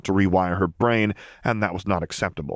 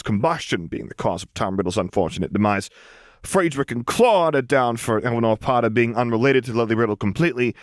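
raised, smug reading-out voice; gloating Frank; 5 semitones higher than usual. Acted. Secretary reading the bet ledger to the losers, smugly gloating. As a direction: savour every word of the win.

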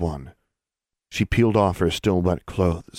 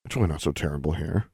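quick sarcastic mumble to herself; 4 dB quieter, faster than usual. Acted. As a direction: mutter it with dry sarcasm. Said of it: "Alexandra mumbled sarcastically to herself".

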